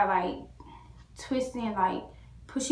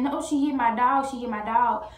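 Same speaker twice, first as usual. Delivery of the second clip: higher, louder, easing slightly; retold cry of distress; upset protest; 4 semitones higher, 4 dB louder than usual. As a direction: insist it in dismay, voice raised. Retells her upset repeated cry.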